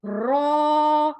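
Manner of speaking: रॉ thick, trilled; heavy ra. Shown as a demonstration. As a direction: say रॉ full and heavy. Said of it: "रॉ को मोटा पढ़ते हैं".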